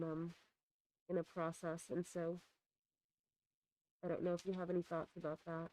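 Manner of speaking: muffled behind a face mask; through a face mask. Real, not acted. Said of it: "Hard to talk with the mask on".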